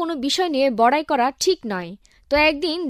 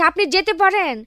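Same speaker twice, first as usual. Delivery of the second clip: angry dismissal; 5 semitones higher than usual. Acted. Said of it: "officer আরো রাগান্বিত হয়ে বলছে".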